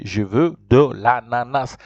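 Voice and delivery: slow, deliberate French model phrase; repeat-after-me model. Shown as a demonstration. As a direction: draw it out for learners to repeat. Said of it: "Repeat after me".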